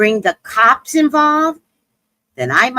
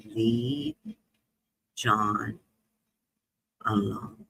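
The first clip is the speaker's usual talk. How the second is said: near-whisper, much softer, slow; hushed warning; 11 semitones lower, 12 dB quieter, much slower than usual. Retold or imitated. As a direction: warn her under your breath.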